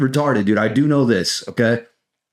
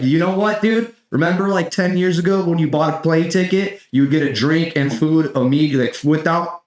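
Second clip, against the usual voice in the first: mock president; 5 semitones higher than usual. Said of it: "if a president was like".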